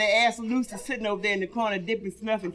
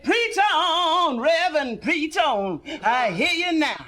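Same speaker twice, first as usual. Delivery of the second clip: calling out; 5 semitones higher, slower than usual. Acted. Old man calls out in church.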